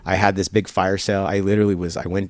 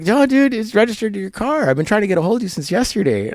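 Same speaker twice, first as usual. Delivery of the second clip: much higher and louder, pressing; a buddy insisting, higher and a bit louder; insistent friend; 13 semitones higher, 4 dB louder than usual. Retold or imitated. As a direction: push it on him like he isn't getting it.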